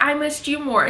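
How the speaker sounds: high, sugary sweetheart voice; mock lovey-dovey. Wife greeting husband home from work, mock lovey-dovey. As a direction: imitate a cloyingly smitten partner. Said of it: "that nauseating love".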